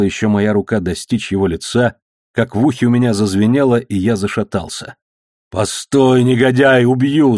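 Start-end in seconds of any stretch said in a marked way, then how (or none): 5.5-7.4 loud, higher furious threat; yelling. A narrator's reading. Hero roars a death threat at the thug. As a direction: roar it in the middle of the fight. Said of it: "заорал я".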